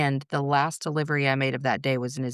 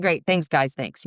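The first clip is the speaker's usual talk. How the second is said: mildly rude thanks, dropping away at the end. Retold or imitated. Mother retelling her reply to the guys, rude. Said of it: "I was so rude".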